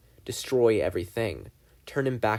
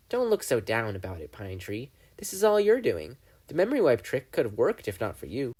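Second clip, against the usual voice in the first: Bill the demon. Acted. Bill taunts Dipper.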